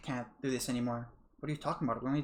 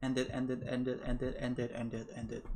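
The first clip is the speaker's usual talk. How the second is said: fading desperate repetition; 3 dB quieter than usual. Acted. Repeating as she breaks.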